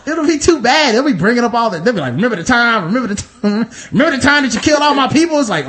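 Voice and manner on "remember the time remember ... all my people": rising, faster accusation; accusing. Retold or imitated. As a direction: build it up into an accusation. Voicing other groups' grievance.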